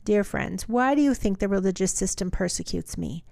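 measured reading aloud of a Bible passage; steady, deliberate Bible reading; scripture reading. Acted. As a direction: read the letter out evenly, phrase by phrase.

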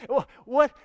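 a delighted stunned double take; astonished what. Real, not acted. Preacher marvels at Moses speaking with God as a friend, loud and amazed. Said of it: "This should get you excited".

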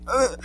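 short mock sob; imitated speechless sob. Kid too upset to answer police, imitated speechless sob. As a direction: choke out a wordless fake cry. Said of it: "I could not even speak".

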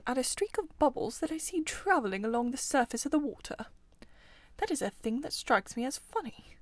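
a hint of a musing animal character; lightly voiced Mole. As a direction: voice the curious creature lightly, apart from the narration.

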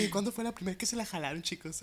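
lightly voiced, quick radio host question; mock radio host. Mocking Evelyn as a radio host, quick. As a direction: ask it like a cheesy radio host. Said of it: "Así, la Evelyn".

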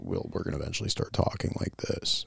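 unvoiced Men's Wearhouse guy voice; Valley boy drawl. Shown as a demonstration. Showing a friend how his family will sound. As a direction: demo the old Valley-boy way of talking. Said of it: "we just go".

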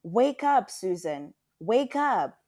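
high, loud call to wake someone; urgent waking call. A narrator's reading. Mother wakes daughter from a nightmare, urgent waking call. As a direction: call out sharply to rouse a sleeper.

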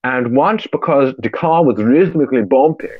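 a put-on German accent that drifts toward Indian; mock German accent. Switching accents mid-update for the podcast, bad German accent. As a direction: read it in a hammed-up German accent. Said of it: "Why have you gone to Indian now?".

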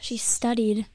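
whispered teasing aside. Real, not acted. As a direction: whisper it like a playful secret. Teasing aside about guest.

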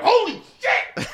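very high, drawn-out loud cry; blown-away reaction. Retold or imitated. Listener hearing the band first time, hammed-up amazement. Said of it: "and I'm like".

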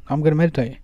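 plainly obvious, nothing to explain; matter-of-fact. Shown as a demonstration. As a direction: toss it off as if she should know. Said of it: "Say it like that".

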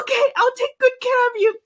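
high, cooing promise to the babies; sweet promise. Retold or imitated. Telling how she promised the babies care, high cooing. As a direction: coo it high like to tiny pets. Retold promise to baby hamsters.

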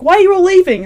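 high, loud protest in retelling; mock dismay. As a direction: imitate someone baffled at being abandoned. Dismayed as everyone leaves the party.

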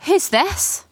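high-pitched, inquisitive pirate voice; curious pirate girl. A narrator's reading. Erin spotting Rowan, curious pirate girl. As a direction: pounce on the newcomer with a question.

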